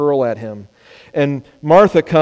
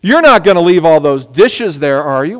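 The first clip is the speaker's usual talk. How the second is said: expecting yes; 4 dB louder than usual. Shown as a demonstration. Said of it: "we all know culturally".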